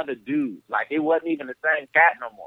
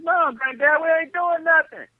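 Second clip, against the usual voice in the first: Trey denying; 13 semitones higher than usual. Retold or imitated.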